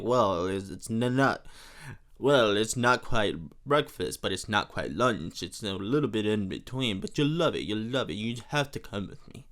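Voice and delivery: low, put-on French accent; hammed-up French charmer coaxing a date. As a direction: do a playful mock French accent. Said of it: "it's just such a fun accent to do".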